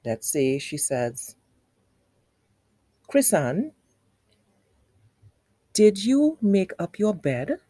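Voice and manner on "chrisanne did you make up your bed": a mother's question, "bed" swinging upward; question rise on "bed". Shown as a demonstration. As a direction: raise the voice at the end on "bed". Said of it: "at the end, she raised her voice".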